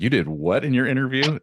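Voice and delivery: high, loud disbelieving question; incredulous. Retold or imitated. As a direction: ask it in shocked disbelief. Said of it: "people said".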